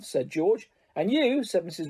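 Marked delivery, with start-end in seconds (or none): 0.9-1.4 high, sharp accusing; sharp rebuke. Acted. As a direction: round on him sharply. Mother rounding on son.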